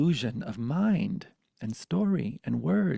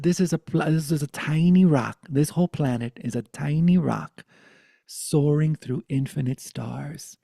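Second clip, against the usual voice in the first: raised, emphatic grandma voice; excited revelation; 4 semitones higher, 7 dB louder than usual. Retold or imitated. Grandmother revealing the planet is a rock, excited. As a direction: proclaim it loudly, higher pitched.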